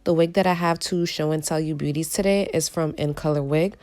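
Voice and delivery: hoarse from a cold; raspy, cold-worn voice. Real, not acted. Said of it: "Excuse my raspy voice, I am recovering from a cold".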